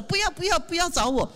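high squealing no-no-no; hammed-up shy refuser waving it off; mock refusal. Mimicking members who refuse to lead, in a high mock whine.

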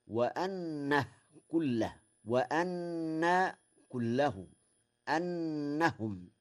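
slow, إنه with kasra on the hamza, innahu; Warsh reading. Shown as a demonstration. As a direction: say inna, not anna. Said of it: "بكسر الهمزة". (بكسر الهمزة في وإنه)

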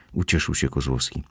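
usual speaking voice

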